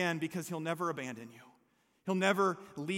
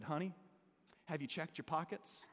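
soft, low, soothing wife; gently calm him down, much softer; nice calming voice; 5 semitones lower, 13 dB quieter than usual. Retold or imitated. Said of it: "in this nice, calming voice".

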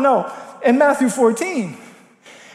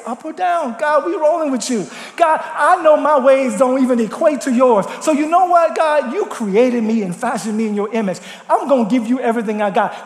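prayer. Acted. Voices a believer's prayer.

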